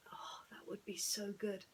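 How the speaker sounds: breathy hushed wish, barely voiced; soft whisper. Real, not acted. Vlogger murmuring about getting back to work, whispered. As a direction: whisper it like a private hope. Wistful aside about earning money.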